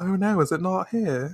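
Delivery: British accent. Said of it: "I slipped into a British accent".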